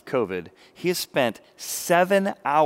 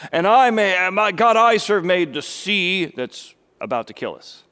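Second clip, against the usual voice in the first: self-righteous Jonah; 4 semitones higher, 5 dB louder than usual. Retold or imitated. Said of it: "self-righteous".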